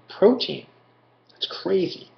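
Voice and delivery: high, startled disbelief; surprised. Real, not acted. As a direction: pitch jumps high in real disbelief. Surprised at protein content.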